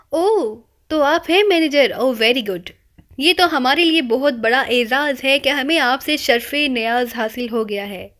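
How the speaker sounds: mock grateful, opening on a breath; a hint of overdone gratitude to the club manager; deeply grateful. Imran flatters the manager, lightly mock grateful. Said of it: "انتہائی ممنونانہ لہجے میں".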